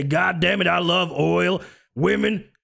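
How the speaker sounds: a light mock Texan twang, hammed-up politician. Streamer mocking a Texas politician, light Southern twang. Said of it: "you put yourself a little twang".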